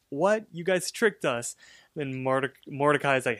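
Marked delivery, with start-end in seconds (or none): 0.1-1.5 high mock-indignant girl; Margaret. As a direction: imitate shocked protest, pitched up. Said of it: "And then Margaret's like".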